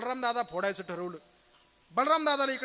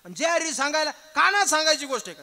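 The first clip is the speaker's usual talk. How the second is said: raised, louder incredulous question; indignant scolding; 4 semitones higher, 5 dB louder than usual. Acted. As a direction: scold the messenger for a pointless secret. Acted brother scolds the messenger.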